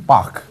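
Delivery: "Bach" with a German ch from the throat; heavy guttural CH. Shown as a demonstration. Teacher shows German C H, heavy guttural "Bach". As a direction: push air hard through the throat ending "Bach". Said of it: "那个C H很重的那个".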